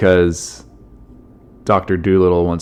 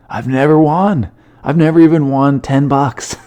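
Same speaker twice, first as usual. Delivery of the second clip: whining loser; 6 semitones higher than usual. Acted. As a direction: moan higher, like a sore loser. Loser whining about his bad luck.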